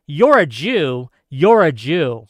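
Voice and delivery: retold screaming. Retelling attackers yelling at a man, slow mock yell. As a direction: shout it out like the attackers did. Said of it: "They were screaming".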